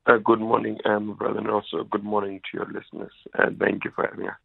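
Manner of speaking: sick voice from a fever; talking through a bad flu, voice worn by the illness. Real, not acted. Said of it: "Is that your phone or is that your morning voice?".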